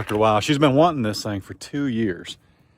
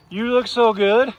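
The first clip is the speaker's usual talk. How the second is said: higher and slower, drawn-out coo; doting cow praise, high and slow; slow pet talk; 9 semitones higher than usual. Real, not acted. Praising a heifer again.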